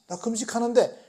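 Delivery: 금식하며 투정하는 사람 흉내; mock complaining. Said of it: "라고 지금 외치는 거예요".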